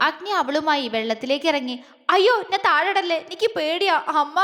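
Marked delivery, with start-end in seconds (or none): 2.1-4.4 higher, near-tearful fear; almost crying. Acted. Jwala begs Agni not to drop her, near tears. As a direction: plead on the edge of tears. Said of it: "അവൾ കരയുന്നത് പോലെ ആയി".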